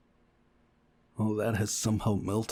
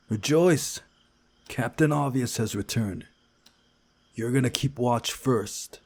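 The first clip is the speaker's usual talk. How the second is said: mock cheer, higher and louder; sarcastic; 3 semitones higher, 4 dB louder than usual. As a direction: sneer at the obvious remark.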